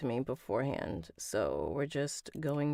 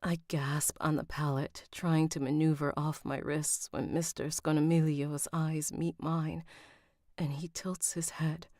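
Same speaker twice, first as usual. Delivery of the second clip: even, measured audiobook read; story narration. A narrator's reading. Narrator reading a novel to listeners, composed story narration. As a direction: narrate it evenly, with composed pacing.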